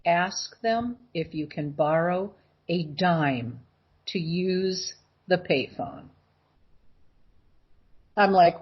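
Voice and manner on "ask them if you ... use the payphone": slow, low, measured voice giving an instruction; softer, deliberate words, spaced out; clear inner voice. Retold or imitated. Clear voice in her ear telling her what to say, slow and measured. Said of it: "I heard this voice, very clear".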